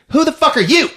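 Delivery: high, loud snap of disbelief; exasperated outburst. Retold or imitated. Kirsty demanding the detective's name, loud and fed up. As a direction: fire it back at the stranger. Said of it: "She's like".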